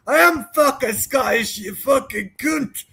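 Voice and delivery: lightly hammed-up tough-guy challenge; Donnie Brasco. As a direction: pretend to be outraged and confrontational. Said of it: "I would've gone Donnie Brasco".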